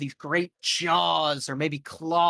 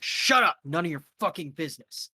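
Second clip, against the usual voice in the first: angry guard snap; 2 semitones higher, faster than usual. Acted. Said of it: "he's like".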